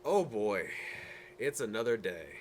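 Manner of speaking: tired morning sigh of a line; weary groan. Acted. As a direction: drag it out like another dull day. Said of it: "think to yourself".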